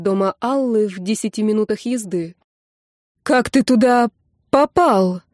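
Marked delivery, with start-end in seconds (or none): none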